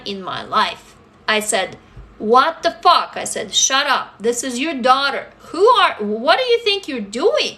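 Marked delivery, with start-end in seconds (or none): 2.2-7.6 firm, sharp talking back to father; standing up to her bullying father, indignant; retold angry retort. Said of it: "I really spoke back to him".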